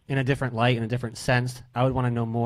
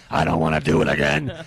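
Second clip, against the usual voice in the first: much lower, mock robotic movie-villain voice; Terminator; 8 semitones lower, 4 dB louder than usual. Host teases guest over the audio glitch, mock Terminator voice. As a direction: imitate a glitched-out voice, dropped deep. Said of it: "she turned into the Terminator".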